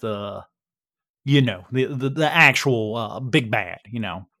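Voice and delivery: folksy Texan, lightly put on; casual Texas twang, halting with uh's; Texas accent. The speaker gives the group the lowdown, light Texas accent. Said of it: "I'm doing my best yeehaw here".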